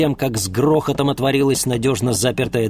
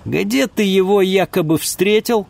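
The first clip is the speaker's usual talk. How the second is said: doubting question, raised; suspicious; 8 semitones higher, 4 dB louder than usual. Acted. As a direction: test his story with suspicion. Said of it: "явно не верила ему".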